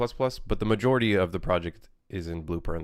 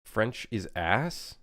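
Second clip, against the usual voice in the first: incredulous; much slower than usual. Real, not acted. Reading chat in disbelief.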